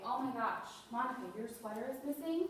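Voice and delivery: mildly shocked, rising at the end; a touch of feigned alarm; acted concern. Shown as a demonstration. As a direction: take the loss seriously, as if about to act. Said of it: "look like you're gonna do something about it".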